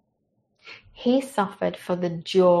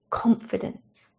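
slow whisper; 5 dB quieter than usual. Acted. Repeats word, slower and hushed.

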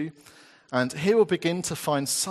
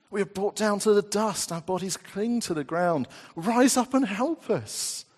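loud, higher, urgent cry to a sleeping God, softening at the end; pleading psalm reading; 6 semitones higher, 6 dB louder than usual. Acted. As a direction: call God to wake up, then ease into trust. Reads psalm forty-four as plea.

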